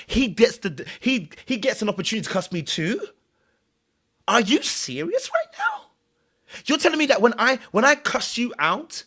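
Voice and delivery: high, slow, disbelieving voice, rising to a squeal; mock incredulous. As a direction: play the outraged cast member who can't believe it.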